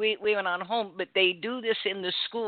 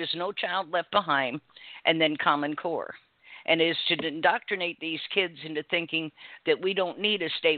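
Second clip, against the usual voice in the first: plain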